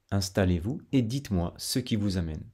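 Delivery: Parisian speed. Shown as a demonstration. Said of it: "on dira".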